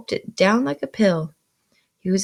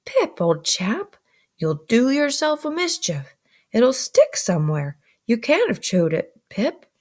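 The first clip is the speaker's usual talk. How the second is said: serious remonstrance; 4 semitones higher than usual. Acted. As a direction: warn the boy earnestly. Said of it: "in a very serious remonstrance".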